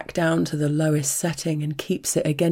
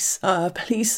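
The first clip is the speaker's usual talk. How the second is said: pleading "please" lifted high; desperate high plea; higher begging; 5 semitones higher than usual. Acted. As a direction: beg "sir, please" with a rising lift. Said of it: "start begging incoherently".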